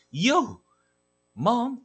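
yelling for mom. Acted. Toby yells for mother.

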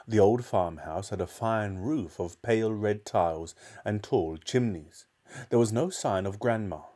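put-on measured children's storybook reading; story narration. A narrator's reading. Narrator telling of George's trouble, storytelling. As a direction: read the tale aloud with care.

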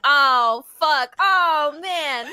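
mock-dramatic dawning horror, stretched words; stunned realization. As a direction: act out a hammed-up love epiphany. Acting out a character's shocked realization.

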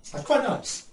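talking through a mouthful of chocolate; chewing while speaking; mouth full. Real, not acted. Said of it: "Talk with my mouth full".

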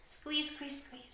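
urging squeeze. Shown as a demonstration. Urging kids to tense arms.

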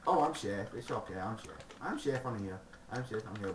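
relieved dopey creeper; nerdy creeper voice. Pretend. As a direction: sigh out relief, naive. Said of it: "nerdiness voice sort of thing there".

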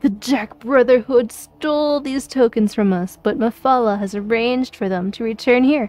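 lightly acted game dialogue; quest-giver character. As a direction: read it as a storytelling quest-giver.

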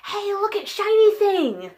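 high, slow, dazed voice; distracted self. Distracted by something shiny while writing a skit, slow and high. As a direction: act out being lured by something shiny. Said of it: "and then I'll be like".

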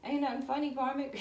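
high, loud sassy comeback; loud mock-indignant retort. Real, not acted. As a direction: snap back at her, amused. Retorting to the card.

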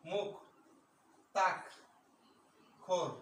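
মুক্তাক্ষর split into মুখ, তাক, খর with pauses; syllable by syllable. Shown as a demonstration. Teacher showing students how মুক্তাক্ষর is pronounced, syllable by syllable. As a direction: say মুখ, then তাক, then খর, each on its own. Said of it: "উচ্চারণটা হচ্ছে মুখ".

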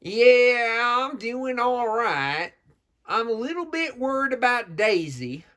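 slow, drawn-out Southern character voice; Southern accent. Acted. Southern character confiding worry about Daisy, in a Southern accent. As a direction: stretch the vowels in a put-on Southern accent. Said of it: "You gotta get my accent better".

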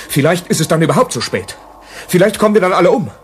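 building from worry to alarm; rising alarm. Acted. Rossi pressing Whittleby to act, alarm building to loud. Panic about the advancing tanks.

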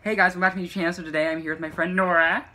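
lightly voiced puppet doing a vlog intro; puppet's voice. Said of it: "I'll do the voice for you".

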